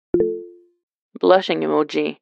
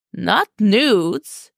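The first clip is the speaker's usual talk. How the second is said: loud shrill protest; 4 semitones higher than usual. Acted. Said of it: "just as loud and shrill".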